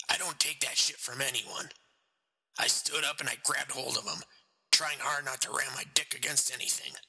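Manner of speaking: cold, matter-of-fact murderer; killer's voice. Acted. Killer tells his story.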